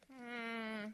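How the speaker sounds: lightly voiced scolding judge; a hint of a self-righteous accuser; judgmental church voice. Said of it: "They didn't stand there and go".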